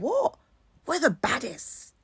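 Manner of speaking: squeaky high "What?" then a soft boast; mock outrage at being told they can't dance; indignant disbelief. Friends shocked at the insult, indignant squeak.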